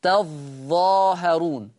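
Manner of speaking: تظاهرون with a doubled, held ظ; geminated ظ in تظاهرون, drawn out; Warsh reading. Shown as a demonstration. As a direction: lean slowly on the ظ of تظاهرون. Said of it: "بيشدد الظاء".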